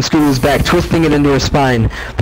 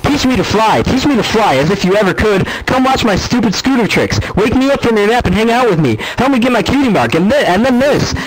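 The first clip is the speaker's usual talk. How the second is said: high, whiny mock-little-filly voice; mocking Scootaloo impression; 7 semitones higher than usual. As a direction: mimic the pest cruelly, all pitched up. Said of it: "her best Scootaloo impression".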